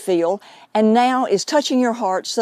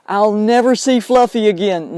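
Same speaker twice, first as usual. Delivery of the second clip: a lightly hammed-up wail of self-pity, a bit louder; acting out a grieving owner's hopeless moan; mock negative crying; 4 dB louder than usual. Medium mocks a pet owner's negative crying, mildly whiny. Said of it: "negative crying".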